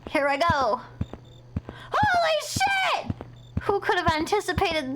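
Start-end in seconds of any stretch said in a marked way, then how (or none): 1.9-3.1 high, drawn-out shocked cry; stunned exclamation. Real, not acted. Player shocked by what happens on screen, drawn out. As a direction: stretch it out in disbelief.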